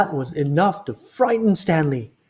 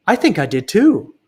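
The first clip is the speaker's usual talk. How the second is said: higher, louder scared reply; quivery voice; 5 semitones higher, 5 dB louder than usual. Acted. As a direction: let your voice shake with fright. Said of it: "said Max in a quivery voice".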